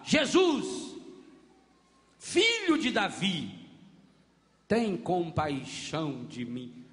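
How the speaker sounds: cry for mercy. Acted. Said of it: "começou a gritar".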